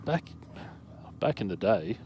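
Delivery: lightly voiced old man; a hint of an old-timer reminiscing. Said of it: "put my old van, old man voice on".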